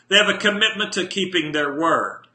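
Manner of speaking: commitment said firmly and leaned on; stress on commitment. Shown as a demonstration. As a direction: lean into the word commitment, deliberate. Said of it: "I'm gonna emphasize the word commitment".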